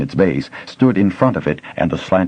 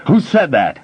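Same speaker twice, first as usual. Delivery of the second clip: loud, higher startled demand; booming demand; 9 semitones higher, 3 dB louder than usual. A narrator's reading. Smith demanding to know who spoke, booming. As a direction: boom it out in the small room. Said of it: "Fanderel demanded, his voice booming".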